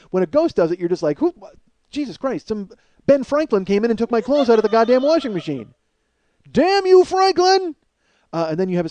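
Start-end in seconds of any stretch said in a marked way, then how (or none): 1.2-5.7 higher, hammed-up exasperation; comic bewildered ranting; mock outrage. Acting out outrage at a ghost. 6.5-7.7 high, loud melodramatic yell; hammed-up vengeful cry; mock cursing shout. Cursing a ghost, acted.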